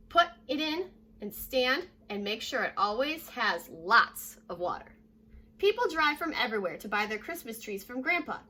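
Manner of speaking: clear, lively read-aloud voice; storybook narration for young kids; reading to children. Acted. Teacher reading picture book aloud.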